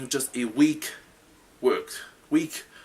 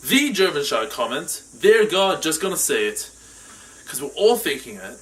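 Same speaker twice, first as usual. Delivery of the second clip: projected, slightly raised explainer voice; show host presenter; 4 semitones higher, 7 dB louder than usual. Acted. Host explaining the game to viewers, projected presenter voice. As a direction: present the rules with punch.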